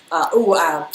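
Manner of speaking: overcome, fighting back tears; choked up. Real, not acted. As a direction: voice catching with tears, breaking off. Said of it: "I just lost it".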